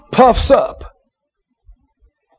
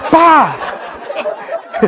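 imitated blast; 5 semitones higher, 4 dB quieter than usual. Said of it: "they hit him with the formula".

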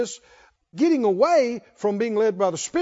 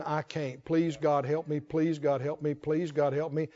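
mock pleading whimper; 5 semitones lower, 7 dB quieter than usual. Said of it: "crying their eyes out, saying".

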